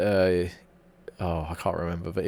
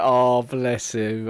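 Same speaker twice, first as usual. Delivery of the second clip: tender; much slower than usual. Retold or imitated. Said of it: "I was like".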